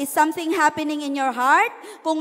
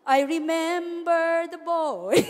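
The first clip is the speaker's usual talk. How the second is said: dreamy remembering; slower than usual. Pretend. Joke quote, then laughs.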